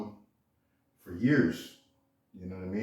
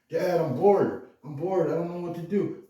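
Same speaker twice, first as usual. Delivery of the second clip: put-on bored kid; 7 semitones higher than usual. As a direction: whine like a bored little boy. Kid whining to his dad.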